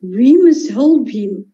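slow, a bit bass, like a gentle giant; Platino's voice. Acted. Platino urging everyone to help, slow and slightly bass. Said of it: "make a little bit bass".

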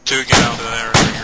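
shouted order. Real, not acted. Squad leader ordering retreat.

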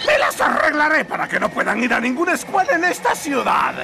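angry ranting. Acted. Principal ranting.

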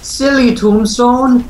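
high, slow teasing scold; playful high scold; mock scolding. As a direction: scold the tombstone like a silly pet. Teasing the tombstone in game.

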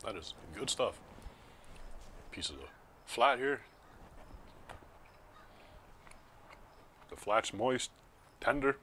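talking through a mouthful; chewing while talking, mouth full. Real, not acted. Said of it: "Talking with my mouth full".

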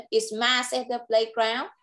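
"Is Matt at the playground?" lifts up on "playground"; slow, let the end climb; rising question tune. Shown as a demonstration. Teacher modelling a yes-no question for the child. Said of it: "con sẽ lên giọng ở cuối câu".

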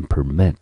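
"permit" with the stress on MIT; stress on second syllable. Shown as a demonstration. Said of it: "重音节在mit这个音节".

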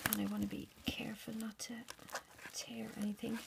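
soft careful whisper. Real, not acted. Unwrapping while kids sleep.

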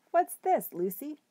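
high, loud surprised hobo voice; a big bearded man, amused; hobo's surprised question. A narrator's reading. Hobo Bull finding a rabbit dropped at his feet, surprised. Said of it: "said the man".

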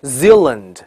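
Zealand as ZEAL-lund, dark L then clear L; American double L. Shown as a demonstration. Teacher repeats it for learners, double L. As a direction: linger on the L in Zealand. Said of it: "发两个Zeal".

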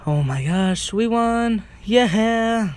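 high loud shrieking laughter; shrieking jackpot winner. Real, not acted. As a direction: scream with joy at winning. Celebrates the win.

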